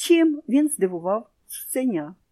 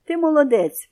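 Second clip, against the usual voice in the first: higher, louder warm praise; praising boy; 6 semitones higher, 5 dB louder than usual. A narrator's reading. Boy praises the parrot warmly. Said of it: "мовив до нього хлопчик".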